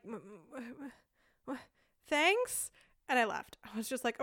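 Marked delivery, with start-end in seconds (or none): 0.1-2.7 flustered stammer. Retold or imitated. Stammering confused reply.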